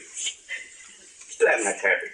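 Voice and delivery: whispered. Acted. Repeated refrain, whispered slow take.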